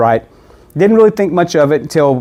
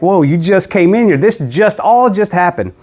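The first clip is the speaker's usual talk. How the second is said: startled father; 5 semitones higher than usual. Retold or imitated. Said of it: "He's scared".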